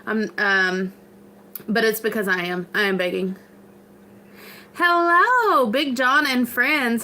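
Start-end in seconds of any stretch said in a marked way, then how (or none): 4.7-7.0 excited greeting. Real, not acted. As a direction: greet them brightly, drawn out. Greeting a commenter.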